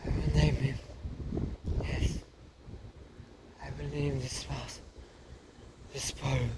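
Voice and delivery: high, dramatic French mother; French mother mouse. Acted. Mother naming her son, high and theatrical. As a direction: play her as a vain diva.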